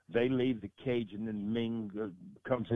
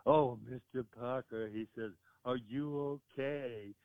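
quoting Ming; slower than usual. Retold or imitated. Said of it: "he's very serious".

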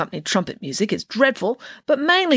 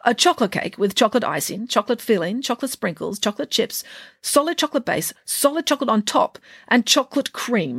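rising, ever higher list; building excitement; 5 semitones higher than usual. Acted. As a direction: pile on each chocolate gleefully. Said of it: "explained Nanny Piggins".

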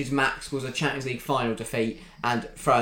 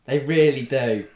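slow playful stage whisper; mock whisper; 4 dB louder than usual. Friend teasing mate in football debate, playful whisper. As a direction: hush it like a secret, teasing.

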